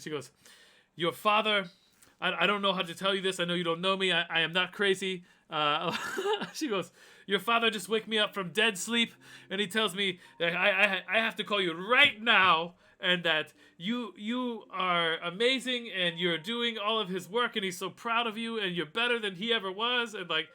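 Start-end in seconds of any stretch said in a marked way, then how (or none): 1.0-5.2 retold in a heavy Russian accent, higher and louder; imitating heavy Russian accent. Dad's Russian girlfriend calling at one in the morning, imitated heavy Russian accent. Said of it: "she got this real heavy Russian accent". 7.3-20.1 retold in a heavy Russian accent, higher and louder; imitating heavy Russian accent. Dad's Russian girlfriend calling at one in the morning, imitated heavy Russian accent. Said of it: "she got this real heavy Russian accent".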